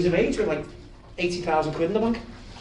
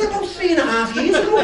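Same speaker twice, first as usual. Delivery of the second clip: laughing reply; 11 semitones higher, 5 dB louder, faster than usual. Retold or imitated. Lad's laughing casual reply.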